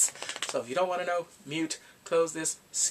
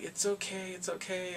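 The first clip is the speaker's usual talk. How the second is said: softer, higher soothing voice; soft reassurance; 4 semitones higher, 6 dB quieter than usual. Retold or imitated. Sick woman consoles the devastated man, soft reassurance. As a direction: comfort someone gently.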